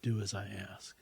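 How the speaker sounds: lightly voiced woman, stretching out "please"; woman's voice, pleading. Woman's voice asking the speaker to obey, slow plea. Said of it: "She says".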